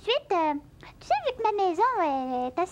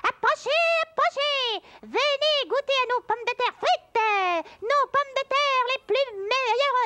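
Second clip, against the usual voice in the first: fairground barker; 4 semitones higher than usual. Pretend. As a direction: call out like a fair vendor hawking fries. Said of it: "je crierai comme ça".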